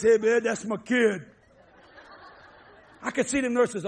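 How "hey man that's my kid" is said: slow, drawled hippie rocker; laid-back rocker voice. Retold or imitated. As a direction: imitate his old rock-musician self, slowly. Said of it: "Talking like this".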